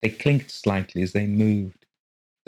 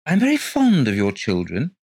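aggressive announcement; 6 semitones higher, 5 dB louder than usual. A narrator's reading. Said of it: "he announced aggressively".

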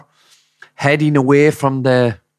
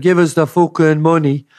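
lightly mimicked Dublin shout, higher pitched; imitated Dublin accent; 4 semitones higher than usual. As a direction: imitate a Garda trying his best Dublin accent. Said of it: "shouted at her in his best Dublin accent".

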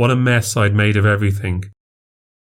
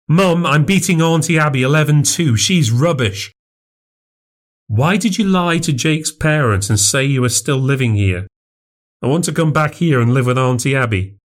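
put-on excited child; 6 semitones higher than usual. Narrator voices the boy Liam.

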